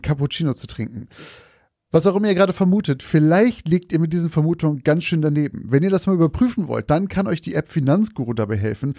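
bright, upbeat sponsor read. Acted. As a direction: pitch the app to listeners. Liest Werbung für Finanzguru vor. (lockerer Werbesprecher-Ton)

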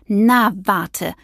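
a hint of rising anger; angry threat. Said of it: "den altbekannten Zorn". (leise drohend, verärgert)

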